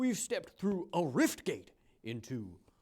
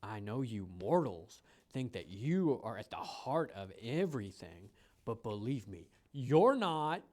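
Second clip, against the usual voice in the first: slow, drawn-out guide voice; spirit guide voice; slower than usual. Acted. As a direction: speak like an ancient guide to a mortal. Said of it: "I don't know if I love the voice".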